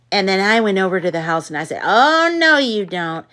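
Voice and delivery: mock a narrator you can't stand; a mild parody of an overacting audiobook reader; over-dramatic audiobook narrator. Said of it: "why is this person talking like this".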